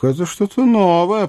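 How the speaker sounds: high-pitched royal surprise; surprised king. Acted. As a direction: remark on an unexpected demand, pitch climbing. King reacts to unexpected demand.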